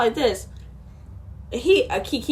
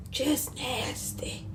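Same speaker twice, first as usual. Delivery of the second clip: hushed and slow, almost under the breath; a whispered, drawn-out verdict of disgust; 15 dB quieter, much slower than usual. Real, not acted. Disgusted aside about the pastor.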